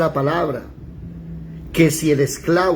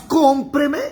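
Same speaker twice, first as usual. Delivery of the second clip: tearful plea; 9 semitones higher than usual. Acted. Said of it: "llorando y diciéndole con lágrimas".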